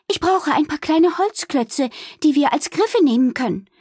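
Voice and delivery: high, urgent burst; blurted out. A narrator's reading. Wilma rushing to Balduin for wood, blurting. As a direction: blurt it out with no preamble. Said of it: "platzte Wilma heraus".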